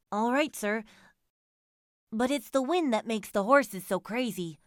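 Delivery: lightly voiced coachman, a little loud; a hint of a servant excusing himself. A narrator's reading. Driver blaming the wind to his fare, as coachman.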